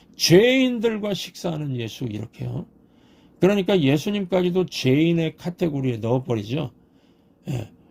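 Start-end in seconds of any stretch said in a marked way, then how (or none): 0.2-2.1 죄인들과 stressed, hit hard and loud. Acting out how the Pharisees would have said it: loud stress on 죄인들과. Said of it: "죄인이라는 말에 힘을 줘서 큰 소리로 말했을 겁니다. ... 이렇게요".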